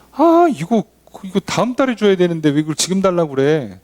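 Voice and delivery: put-on a parent cornered by a nagging kid; annoyed parent. 부모가 떼쓰는 자식에게. (떼쓰는 자식에게 짜증 내는 부모)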